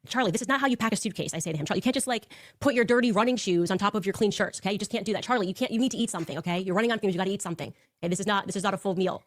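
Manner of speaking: playful married-couple bickering; nagging bickering. Retold or imitated. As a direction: nag him about packing and eating. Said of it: "bickering like an old married couple".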